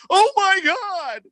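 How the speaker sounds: high, slow, drawn-out mock announcer gasp; hammed-up broadcaster disbelief; stunned announcer. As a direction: stretch it out like a shocked TV announcer. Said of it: "announcers are like".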